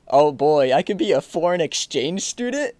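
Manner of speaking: put-on lifted, eager "oh boy" reaction; mock excitement. Podcaster quoting his reaction to being an exchange student, mock excited. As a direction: play up mild excitement at the idea.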